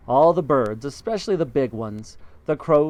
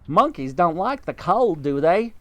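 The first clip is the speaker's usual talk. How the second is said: high bird voice; roly-poly bird; 4 semitones higher, 4 dB louder than usual. Acted. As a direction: chirp it like a friendly bird.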